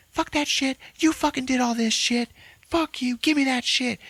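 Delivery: hammed-up high rant; mock furious Ashley. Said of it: "Ashley's like".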